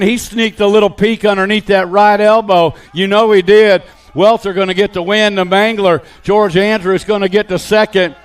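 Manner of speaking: brisk race call, steady and driving; live play-by-play. Acted. Announcer calling the BMX race to the crowd, live play-by-play. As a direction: call the riders through every corner.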